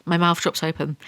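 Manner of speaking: normal talking voice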